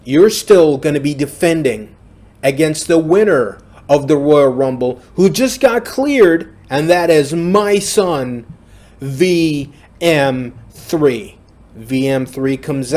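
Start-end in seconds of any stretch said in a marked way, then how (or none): 0.0-11.4 mock wrestling promo, loud and rising; Vince McMahon promo. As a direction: ham up a booming boss reveal to the arena. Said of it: "And he says that".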